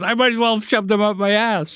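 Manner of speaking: a bit of country bumpkin punchline; hick voice. Retold or imitated. Comedian tells his friend the joke's punchline in a light hick voice. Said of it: "this sort of dumb hick joke".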